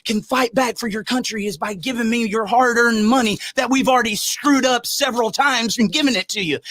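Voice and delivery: a hint of a smarmy candidate pitch; mocking a politician begging for donations. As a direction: parody a fundraising politician. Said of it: "they tell you".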